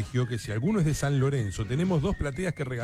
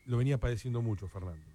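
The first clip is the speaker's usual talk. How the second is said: quiet, grave tribute; somber; 3 dB quieter than usual. Real, not acted. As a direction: break sad news gently, with respectful pauses. Announces a former coach's death.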